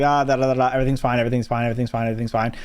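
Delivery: lazy singsong chatter, fading off; singsong dismissive. Retold or imitated. Dad and son chatting, breezy singsong murmur. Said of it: "We're just be like".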